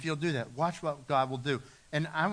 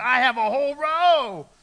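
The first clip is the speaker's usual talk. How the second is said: put-on thrilled, excited, high and very drawn out; 8 semitones higher, 11 dB louder than usual. Speaker retelling a mother arriving at church with her cousins, retelling her excitement. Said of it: "She's all excited".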